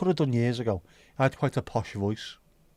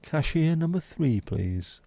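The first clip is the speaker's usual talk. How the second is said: higher, slow announcement; bingo voice cashier call; 5 semitones higher, slower than usual. Pretend. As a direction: call the till number like a bingo caller. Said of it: "Bingo voice for cashier number two".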